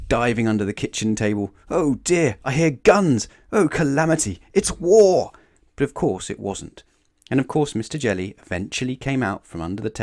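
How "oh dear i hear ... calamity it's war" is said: high, loud, building alarm; hammed-up storybook panic; panicked exclaiming. A narrator's reading. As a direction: exclaim each phrase as a fresh catastrophe. Frightened character panics under table.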